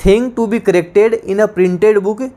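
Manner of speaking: slow, deliberate definition; slow dictation. Shown as a demonstration. Teacher repeating a definition slowly to students. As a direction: read it slowly, word by word. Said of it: "dictating definition".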